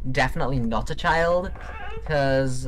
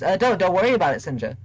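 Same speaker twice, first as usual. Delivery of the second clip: mock-defensive; 4 semitones higher, faster than usual. Comic denial of sniffing the listener.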